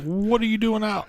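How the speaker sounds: asking mom what she's doing out so late; mock surprise. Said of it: "I'm like".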